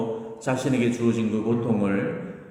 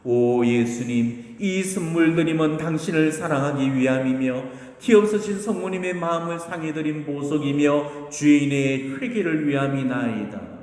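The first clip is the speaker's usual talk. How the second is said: solemn prayer, pitched higher; raised, sustained tone of earnest praying; recited prayer; 4 semitones higher than usual. Retold or imitated. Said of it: "가르쳐 주신 기도가 있죠".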